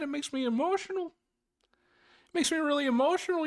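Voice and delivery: very high parody voice, halting and emotional; Jordan Peterson. Acted. Host parodies an emotional pundit advising the viewer, Peterson impression. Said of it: "I am not doing a good Jordan Peterson tonight".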